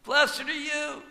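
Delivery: high, slow, sustained blessing; pronounced blessing. Acted. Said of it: "he pronounced a blessing".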